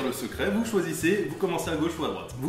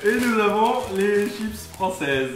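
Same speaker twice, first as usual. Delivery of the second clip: grand announcer voice; 5 semitones higher, 4 dB louder, slower than usual. Pretend.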